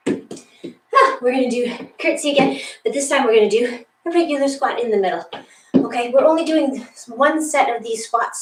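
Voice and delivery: breathless, panting between words; out of breath. Real, not acted. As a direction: talk while gasping for air. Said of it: "I'm so out of breath".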